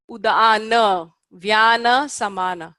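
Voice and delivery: "Udana, vyana, samana" spoken slowly with long vowels; slow and clear Sanskrit drill; careful Sanskrit pronunciation. Shown as a demonstration. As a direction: model each word for the class. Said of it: "Let's do it again".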